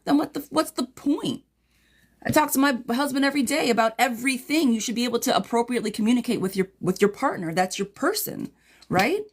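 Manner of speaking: getting worked up for her; got hot. Real, not acted. Reader ranting to client over a silent husband, heated. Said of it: "Sorry, girl, I just got hot".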